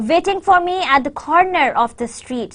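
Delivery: "corner of the street" brought out; stress on CORNER and STREET. Shown as a demonstration. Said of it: "the corner of the street is again stressed".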